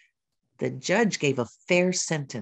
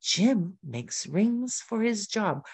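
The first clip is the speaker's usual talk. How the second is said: slow, measured "Jim makes rings for his job"; teacher modelling fluent phrasing of "Jim makes rings for his job"; phrased cadence; 2 semitones higher, slower than usual. Shown as a demonstration. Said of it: "learn that cadence of the language".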